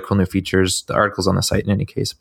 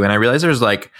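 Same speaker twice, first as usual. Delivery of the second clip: talking through hiccups; hiccuping mid-sentence; 3 semitones higher than usual. Real, not acted. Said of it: "I got the hiccups".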